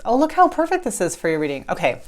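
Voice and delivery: a little winded after the stairs; breathless, catching her breath. Real, not acted. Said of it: "So I'm a little bit out of breath".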